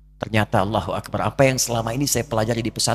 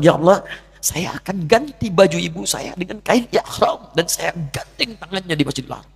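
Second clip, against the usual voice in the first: fervent vow; 6 semitones higher, 3 dB louder than usual. Retold or imitated.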